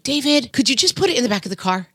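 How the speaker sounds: a hint of snappy nagging at husband, a bit fast; lightly mimicked exasperated wife; impatient nagging. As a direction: fire off an irritated request. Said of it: "do I do the other part where I'm like".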